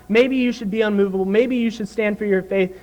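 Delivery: mildly tentative, running on lightly; tentative suggestion. Acted. Preacher mimicking a mere suggestion to the congregation, mildly tentative. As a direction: offer it as an optional suggestion. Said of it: "It's not a suggestion".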